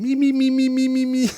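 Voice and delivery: very high singing-style me me me; vocal warm-up. Retold or imitated. Husband at the computer, warming up his voice, high. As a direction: run up a vocal warm-up scale on me. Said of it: "and he's going".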